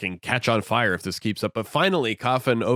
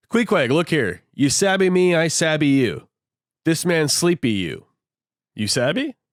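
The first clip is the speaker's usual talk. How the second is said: mock pidgin explaining; 6 semitones higher, 4 dB louder than usual. Landlord talks pidgin to Queequeg.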